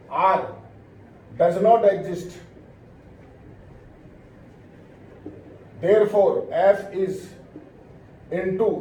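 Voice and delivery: very slow, broken into short chunks; slow dictation. Real, not acted. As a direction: dictate phrase by phrase with long pauses. Dictating the conclusion to copy.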